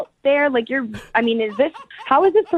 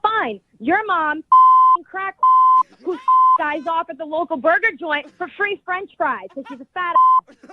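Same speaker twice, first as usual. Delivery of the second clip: heated, higher-pitched rant; angry insult; 5 semitones higher than usual. Pretend. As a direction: let the insults fly. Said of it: "Just say whatever's on your mind".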